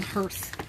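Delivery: "hearth" said as "herth", slowly; earth-like vowel. Shown as a demonstration. Explaining the spelling, "hearth" pronounced "herth". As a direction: make "hearth" rhyme with "earth". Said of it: "like earth".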